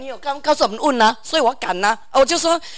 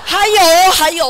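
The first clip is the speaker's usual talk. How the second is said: laughing; 5 semitones higher, 7 dB louder than usual. Real, not acted. Laughing while telling the story.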